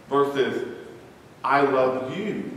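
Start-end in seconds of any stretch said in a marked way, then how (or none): 1.4-2.5 slow, with "you" lifted on a rise; stress on YOU. Shown as a demonstration. Preacher demonstrating a stress on "you" for the pews. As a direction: bring out the word "you" at the end. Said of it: "or the "you".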